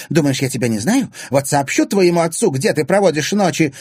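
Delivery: loud, high, angry threat; threatening. A narrator's reading. Woman threatening to tell the girl's father, angry. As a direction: threaten her with exposure.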